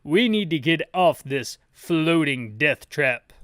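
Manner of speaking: loud, slow put-on hero voice; urgent. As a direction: declare it like an action hero. The speaker reading the urgent line.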